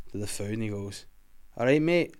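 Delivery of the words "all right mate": put-on Glaswegian man asking in a Scottish accent; a Glaswegian customer in a Scottish accent, slightly higher. Telling the macaroon joke to Willie in a Scottish accent. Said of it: "macaroons in a Scottish accent".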